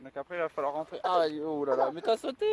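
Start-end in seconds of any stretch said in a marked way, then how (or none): 1.9-2.5 excited. Real, not acted. Father cheering a child.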